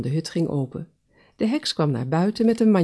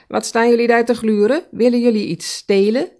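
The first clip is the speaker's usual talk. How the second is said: hoog en luid uitvallen; boze heks; 7 semitones higher, 8 dB louder than usual. Acted. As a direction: snauw de indringers hoog en luid toe. Heks betrapt dieren bij raam. (luide, hoge uitval van de heks tegen de dieren)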